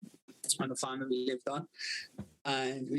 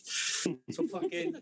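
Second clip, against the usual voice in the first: laughing; 3 semitones higher, much slower than usual. Real, not acted.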